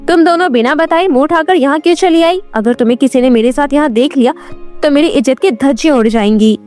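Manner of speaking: quick, mildly angry scolding. Acted. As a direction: scold them fast, with a touch of anger. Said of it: "काजल गुस्से से बोली". (हल्के गुस्से में तेज़ डांट)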